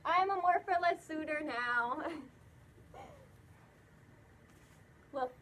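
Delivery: muffled inside mascot head; speaking inside full head mask; through a costume head. Real, not acted. Seen 2: Speaker wears full fursuit head over face throughout labelled words.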